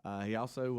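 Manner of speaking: muffled behind a hand; hand over mouth. Real, not acted. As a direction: talk through your fingers. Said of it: "why do you have your hand over your mouth?".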